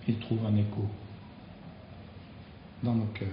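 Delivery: hushed, earnest prayer with long pauses. Real, not acted. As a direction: pray simply to the Lord, pausing between phrases. Closing prayer after the sermon. (prière recueillie, entrecoupée de silences)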